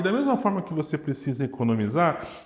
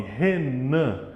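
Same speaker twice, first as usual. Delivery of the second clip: "Renan" with the weight on "nan"; weak "Re", strong "nan"; stress on final syllable; 4 semitones lower than usual. Shown as a demonstration. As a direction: lean on the last syllable of "Renan". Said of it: "A sílaba forte tá no nan".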